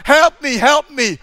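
loud, high cry for help; shouting for help. Retold or imitated. Man adrift on a roof yelling at a ship, loud and high. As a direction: call out to the passing ship. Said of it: "wave and shout".

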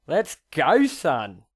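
loud Let's go; cheering hype. Real, not acted. Cheering Jake's answer with a loud hype call. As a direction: cheer him on.

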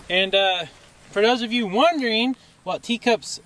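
talking while chewing gum. Real, not acted. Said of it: "I had chewing gum in my mouth".

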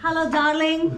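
attempted British accent. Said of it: "British accent".

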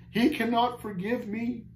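high, slow, anguished wail; despairing cry. A narrator's reading. Caged man tells Christian he is unforgivable, crying out. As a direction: wail it slowly, beyond all comfort. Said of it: "cried the man".

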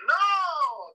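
mock kids' yell. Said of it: "They all yelled out".

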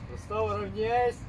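loud parade-ground command; drill command. Real, not acted. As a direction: bark the order to the ranks. Commander repeats the command louder.

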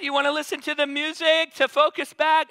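gentle offer. Retold or imitated. Husband gently offers music mid-labor.

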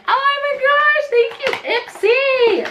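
high, slow, loud squeal of joy; thrilled squeal. Real, not acted. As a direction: squeal your thanks, drawn out. Thrilled by the palette gift.

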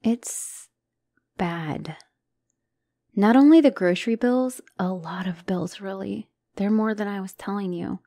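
tearful whisper. Acted. Confessing debts, near tears.

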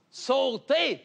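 high called-out order; calling out. Acted. Fireman calling to the woman at the window, high shout. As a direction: call it up to the window.

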